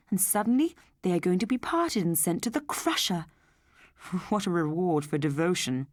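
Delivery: lightly voiced husband, sad and earnest; husband character. Husband telling his wife the Teds deserve better, lightly voiced and earnest. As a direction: plead gently for the robots.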